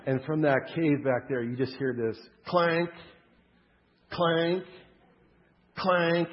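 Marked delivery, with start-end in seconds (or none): 2.5-6.3 spaced-out clanks, ringing out one by one; ominous imitated clank. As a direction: imitate a menacing clank, pausing between each. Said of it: "it's just kind of this ominous".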